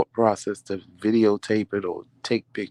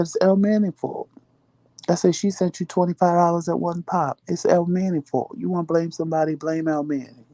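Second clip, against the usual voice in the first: higher, insistent finger-pointing; emphatic blaming; 7 semitones higher than usual. Retold or imitated. Wife telling husband his cousin caused it, high emphatic. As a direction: pin it on El Manning, pitched up.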